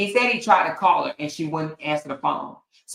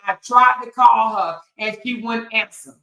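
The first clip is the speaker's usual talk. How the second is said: mock apologetic dad. Mocking a rapper apologizing to his daughter, pleading voice. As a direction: ham up a father's plea. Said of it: "Boosie said".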